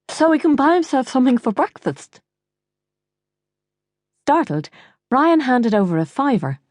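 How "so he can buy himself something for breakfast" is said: high, thick-tongued order; swollen tongue. Acted. Mother ordering Ryan to hand over money, swollen-tongued. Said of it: "your tongue is swollen".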